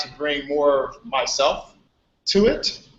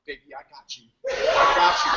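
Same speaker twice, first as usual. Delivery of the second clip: laughing; 3 semitones lower, much faster than usual. Retold or imitated. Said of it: "she was like".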